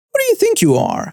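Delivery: high, shrieking outrage; screaming. Retold or imitated. Angry parent shrieking at the clerk. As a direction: screech the question at him.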